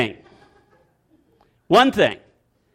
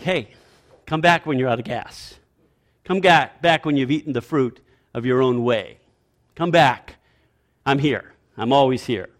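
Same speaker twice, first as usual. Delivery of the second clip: understated, lower, unhurried invitation; patient God; 4 semitones lower than usual. Acted. God to those who ran away, patient low-key invitation. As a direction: let them go, calmly leave the door open. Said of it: "he doesn't chase us. It's like".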